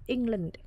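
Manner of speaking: England stressed on Eng; stress on first syllable. Shown as a demonstration. Teacher repeats England as example, stress on Eng. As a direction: hit Eng, let land drop in England. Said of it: "trọng âm sẽ rơi vào âm tiết một".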